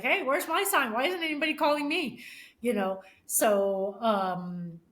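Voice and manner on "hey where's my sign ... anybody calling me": higher, louder playful mom plea; imagined mom. Retold or imitated. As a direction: voice the mom asking for a sign. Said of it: "she's probably like".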